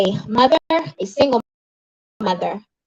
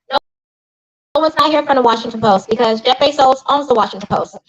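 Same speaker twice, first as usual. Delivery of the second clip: raised pitch, emphatic public condemnation; indignant rebuke; 4 semitones higher than usual. Real, not acted. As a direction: call them out with real outrage. Rebukes the newspaper over sister's death.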